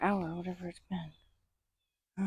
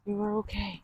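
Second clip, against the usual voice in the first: soothing pet talk; 3 semitones higher than usual. Real, not acted. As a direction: gently reassure a rattled horse. Soothing upset horse while spraying.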